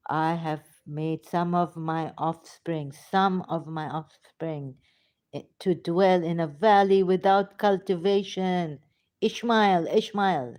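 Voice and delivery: measured verse reading that builds; scripture recitation. Acted. Speaker reading Ibrahim's prayer to listeners, emphatic recitation. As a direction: recite it deliberately, gaining force.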